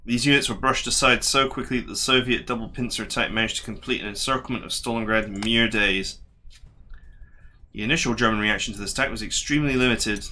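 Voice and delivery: measured, even reading-aloud voice; game briefing narration. A narrator's reading. Player reading the Stalingrad briefing aloud, measured narration. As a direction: read the war briefing as a narrator.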